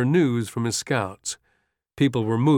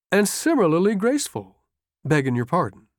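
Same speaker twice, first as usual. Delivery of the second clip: teasing sergeant; 7 semitones higher than usual. A narrator's reading. Sergeant teases the general back.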